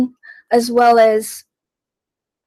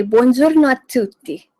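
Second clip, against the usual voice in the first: Italian greeting; 2 semitones higher than usual. Shown as a demonstration. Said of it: "Or I should say".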